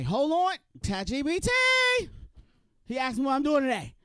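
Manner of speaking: high and loud, rushing to the bot; frantic asking the chatbot; urgent loud ask. Acted. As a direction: call out for help. Asking ChatGPT again.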